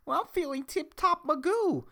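very high, squeaky self-mockery. Shown as a demonstration. Podcaster shows how silly he sounds saying it, squeaky. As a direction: squeak it out high, mocking your own voice. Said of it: "with my fucking squeaky voice".

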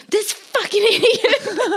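high, slow mocking curse; mock road rage. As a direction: sneer it at the other driver. Mom voiced cursing other driver.

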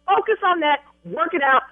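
real exasperated, emphatic commands; angry orders. Real, not acted. Bride ordering agent to fix the booking, angry and emphatic. Furious customer giving orders.

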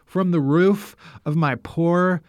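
sore mouth after dental surgery; after a tooth pulled. Real, not acted. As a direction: talk around a fresh tooth extraction. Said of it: "the new sound of my voice".

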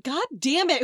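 acted burst of annoyance; exasperated. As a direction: curse like an interrupted student. Acts out annoyed students.

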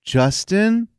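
name sung out high; high, put-on call of a name; high-voiced name call. Shown as a demonstration. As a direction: pitch it well up. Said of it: "can you at least go".

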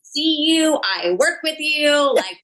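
protest, then drag out the question; exasperated pleading. Retold or imitated. Retells exasperated plea to self.

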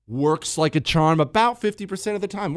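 ordinary delivery

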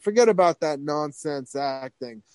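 persuasive imitated Long Island voice; Harvey Fierstein. School boss talking teenager out of acting, light Fierstein impression. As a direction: push the idea in a light mock Long Island voice. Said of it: "sounded like Harvey Fierstein".

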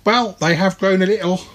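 a chirpy little creature making his case; reasoning Twang. Acted. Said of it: "reasoned Twang".

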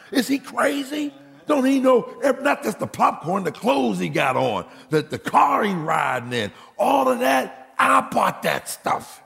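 high, rising indignation; preacher hamming up his outrage at a thankless son; exasperated rant. Acted. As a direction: pile it on in disbelief.

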